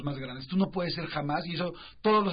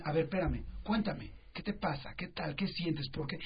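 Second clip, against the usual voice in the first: softer, slower, patient questions; calm parent; 3 dB quieter than usual. Retold or imitated. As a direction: gently invite the kid to talk. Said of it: "en lugar de decirle".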